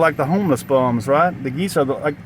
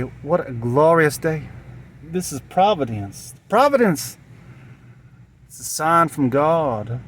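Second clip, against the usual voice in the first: rejoicing witch; slower than usual. Retold or imitated. Witch finding his body, mock-rapturous and slow. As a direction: hail the find like a miracle. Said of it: "And she'll say".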